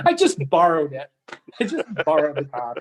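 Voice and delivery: amused, with laughs breaking in; tickled by the joke; laughing. Real, not acted. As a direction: chuckle through the words. Joking right after a laugh.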